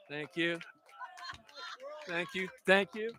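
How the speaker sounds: ordinary delivery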